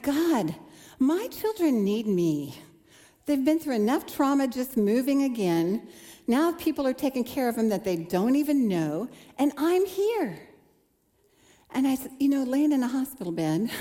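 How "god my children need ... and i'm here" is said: mildly heated complaint to God, rising high on the end; a hint of indignant protest; retold fuming prayer. Sick mother in hospital complaining to God, mildly angry. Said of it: "I'm fuming. I'm mad".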